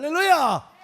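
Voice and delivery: loud high preacher's cry; full-force, high-pitched acclamation; exultant shout. Real, not acted. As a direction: call it out to rouse the congregation. Preacher calls out to congregation.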